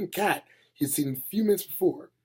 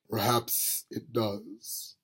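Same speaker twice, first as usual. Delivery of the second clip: Death's voice; 3 semitones lower, 6 dB quieter, much slower than usual. Acted. Death's voice speaking.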